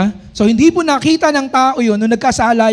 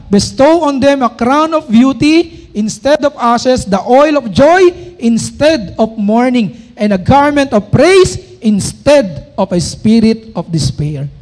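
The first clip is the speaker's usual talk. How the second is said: slow, loud, solemn verse reading; scripture reading; 3 dB louder, slower than usual. Acted. Preacher proclaiming a verse to the congregation, slow and loud. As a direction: proclaim each word of the verse slowly.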